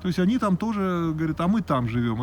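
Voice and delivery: normal talking voice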